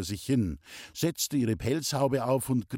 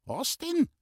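much higher, astonished question; a startled what. A narrator's reading. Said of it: "fragte Traudl erstaunt".

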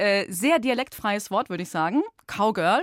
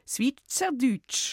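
dramatic announcement; 3 semitones higher, much slower than usual. Shown as a demonstration. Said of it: "Und Achtung, jetzt hört ihr".

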